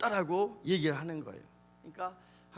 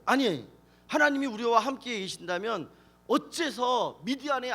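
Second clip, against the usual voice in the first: acted indignant complaint, pitched up at the start; 3 semitones higher, 4 dB louder than usual. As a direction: challenge the angel with aggrieved questions. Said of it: "불평을 하는 거예요". (따지듯 불평하는 연기)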